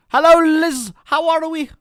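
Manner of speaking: high, loud mock Russian greeting; jokey Russian accent greeting a friend. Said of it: "I don't know why I went Russian".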